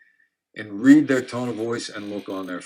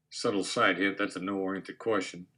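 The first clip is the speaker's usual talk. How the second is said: aside; 5 semitones lower, 7 dB quieter than usual. Real, not acted. Aside explaining the quoted line.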